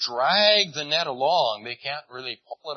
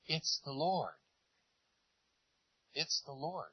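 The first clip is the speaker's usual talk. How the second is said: hushed recognition; 10 dB quieter than usual. Retold or imitated. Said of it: "he says over to Peter".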